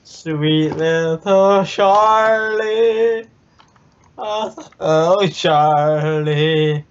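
cooing. Acted. Cooing to pet character.

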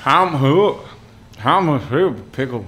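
a Kerry farmer attempting American Southern; Southern Irish accent. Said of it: "you thought Southern Ireland".

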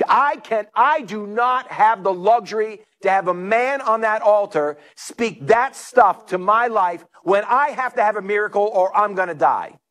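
mildly indignant, insistent protest; retold anger. Preacher voicing the lady behind at the conference, mildly angry protest. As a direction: imitate an outraged woman putting her foot down. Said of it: "was even more angry".

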